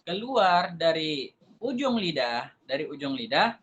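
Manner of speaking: ujung lidah drawn out for students; slow and deliberate. Shown as a demonstration. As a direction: stress ujung, slow teaching pace. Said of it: "Ketiga huruf ini keluar dari mana?".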